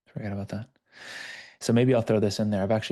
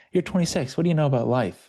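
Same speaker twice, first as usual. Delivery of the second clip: scoffing; 7 semitones higher, 5 dB louder, faster than usual. Retold or imitated. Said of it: "he goes".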